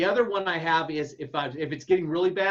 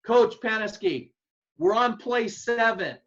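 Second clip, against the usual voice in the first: called out slow and raised, like across a practice field; mock yell; 5 semitones higher, 4 dB louder, slower than usual. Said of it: "If I yell at you and say".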